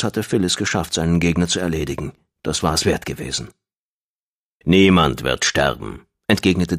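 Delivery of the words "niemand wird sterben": low, slow, firm voice; stern Dashab. A narrator's reading. Dashab contradicts screaming Gong, low and firm. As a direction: counter the screaming with low, measured authority.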